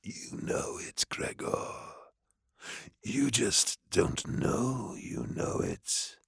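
menacing slow whisper. Acted. Demon whispering to Gregor that he knows. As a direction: breathe it into his ear.

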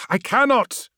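high, strained admission; urgent, distressed refusal; pained refusal. Acted. Ammon refuses his lord.

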